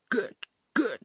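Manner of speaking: high-pitched cursing at an object; angry calling out. A narrator's reading. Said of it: "riep ze er tegen".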